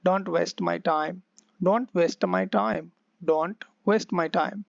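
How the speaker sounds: slow, clear drill for repeating; slow practice read. Shown as a demonstration. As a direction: say it slowly so students can copy. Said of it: "मेरे पीछे-पीछे बोलना". (धीरे-धीरे, साफ़ बोलकर दोहराने के लिए)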